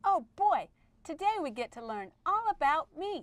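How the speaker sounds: gleeful burst of eagerness to be taught; excited. Pretend. Erica Exclamation thrilled the lesson is about her, excited. Excited character greets the class.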